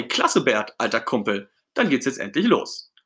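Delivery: happy, eager cheer; enthusiastic Ernie. Acted. Ernie thanking his pal Bert for the tandem, enthusiastic. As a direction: praise your pal with keen delight. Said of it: "Ernie strahlt vor Begeisterung".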